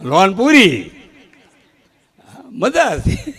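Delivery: high laugh breaking through the punchline; laughing at own joke. Real, not acted. (હસતાં હસતાં પંચલાઇન)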